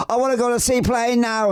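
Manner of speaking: very high, eager re-enacted demand; retold excitement. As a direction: blurt it high, like an excited kid. Re-enacts excitement on leaving the plane.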